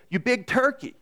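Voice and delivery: imitating exasperated golf buddies; mock golf insults. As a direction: razz a golf buddy who shanked one. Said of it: "what comes out of their mouth is".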